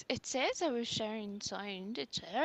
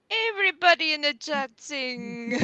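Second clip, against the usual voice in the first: excited call; 5 semitones higher, 10 dB louder than usual. Real, not acted. Urging chat to sing.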